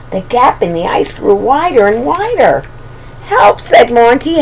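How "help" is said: higher, small pleading call; storybook cub crying help; little cry for help. Acted. Monty drifting out to sea.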